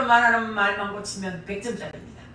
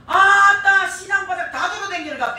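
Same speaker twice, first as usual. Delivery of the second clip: loud, high mock scolding; gruff Gyeongsang grumble; 9 semitones higher, 9 dB louder than usual. Preacher mimics husband scolding her late return, gruff. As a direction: snap at her like a grumpy husband. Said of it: "이렇게 하고 말하거든요".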